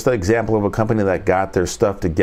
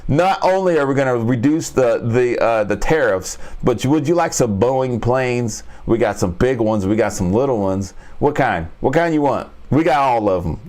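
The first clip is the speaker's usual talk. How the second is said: lightly voiced pushy salesman; mock pitch to countries buying planes; fast food upsell. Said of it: "he goes in for the upsell".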